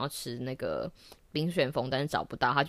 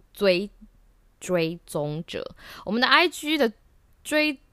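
tongue tripping over words with braces; stumbling through a retainer lisp; 9 semitones higher, slower than usual. Real, not acted. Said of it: "大舌头，戴了牙套之后大舌头".

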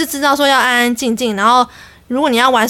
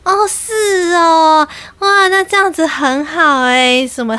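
put-on defeated old lady; 5 semitones higher, slower than usual. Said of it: "她就说".

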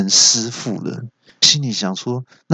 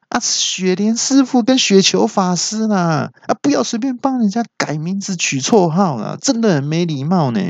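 high calling out; 8 semitones higher than usual. Acted. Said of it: "我就大叫说".

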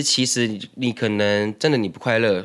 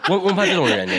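laughing; faster than usual. Real, not acted. Laugh heard.

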